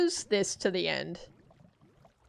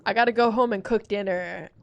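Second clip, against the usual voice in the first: whiny coworker; 3 semitones lower than usual. Retold or imitated. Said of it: "You're like".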